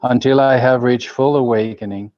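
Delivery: measured group prayer, phrase by phrase; prayer recitation. Real, not acted. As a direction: recite it evenly, leaning into each phrase opening. Leads a recited refuge prayer.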